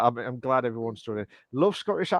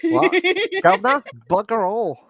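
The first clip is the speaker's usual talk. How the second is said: raised, louder mock Cockney; Cockney accent; 6 semitones higher, 5 dB louder than usual. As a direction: throw out Cockney slang in a put-on accent. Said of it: "Yeah, Cockney".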